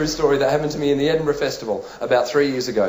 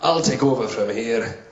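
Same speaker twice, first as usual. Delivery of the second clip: low, slow hard-man voice; tough first aider; 5 semitones lower, slower than usual. Acted. First-aid guy taking over, low tough-guy voice. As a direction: massive bloke calmly taking charge. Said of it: "Massive guy, bald, shaven head".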